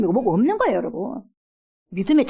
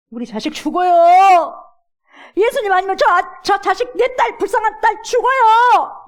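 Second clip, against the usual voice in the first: slow, loud, much higher cry; desperate wail; 10 semitones higher, 7 dB louder, slower than usual. Retold or imitated. Mother crying to Jesus for her dying daughter, desperate.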